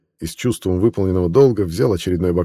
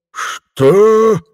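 a high, loud outraged roar; the mayor roaring at the reporter's insolence; 9 dB louder than usual. Acted. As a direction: bellow it in disbelief. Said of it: "взревел городничий".

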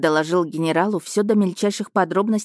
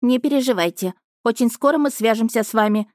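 higher, calling out; called out; 5 semitones higher than usual. Acted. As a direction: call it from afar. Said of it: "крикнул инопланетник".

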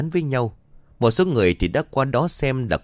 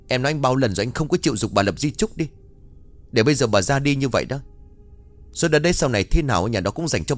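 reproachful; 2 semitones higher, faster than usual. Acted. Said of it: "như là giọng trách móc".

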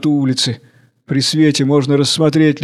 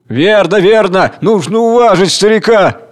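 loud, higher cheering agreement; excited crowd; 7 semitones higher, 5 dB louder than usual. Acted. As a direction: shout your support.

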